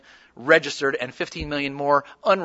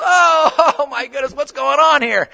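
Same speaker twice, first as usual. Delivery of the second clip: surprised exclamation; 8 semitones higher, 4 dB louder than usual. Retold or imitated. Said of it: "And Vladimir Petrovich".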